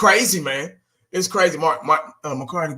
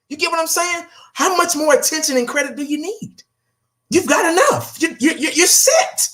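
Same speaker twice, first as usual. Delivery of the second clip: higher-pitched imagined plea to the owner; pleading rant at Jerry; 5 semitones higher than usual. Retold or imitated. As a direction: talk to him as if face to face, pitched up and pleading. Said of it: "I'm like".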